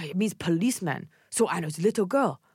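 lightly imitated Korean accent; Doctor Na's Korean accent. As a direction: explain with a hint of Korean accent. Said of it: "I'm imitating her".

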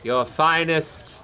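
suave Arete. Acted. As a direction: savour every word like a fine wine. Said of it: "He pulls up and says".

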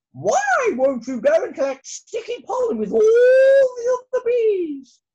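very high, loud furious question; angry queen. Acted. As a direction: demand an answer, shouting high.

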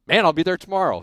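loud, high, eager Jersey-free yes; eager reply. Retold or imitated. Young mechanic jumps at the job offer, excited.

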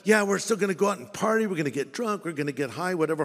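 breezy hypocrite brushing it off; mock double-life voice. Preacher mocking a two-faced churchgoer, light and breezy. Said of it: "they're trying to live in two worlds".

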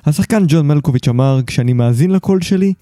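measured, articulate host's monologue; scripted podcast narration. Acted. Host opens the episode for listeners, scripted narration. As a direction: read it as a polished podcast essay.

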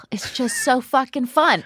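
whispered, no voice at all. Real, not acted. Host gushing to the audience about the guest's live show, in a whisper. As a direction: breathe it out as a secret.

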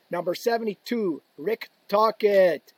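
slow, drawn-out arena announcer; announcer call. Retold or imitated. Imitating the arena announcer introducing players, slow and booming. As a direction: call the name out to the crowd slowly. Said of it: "they'd go".

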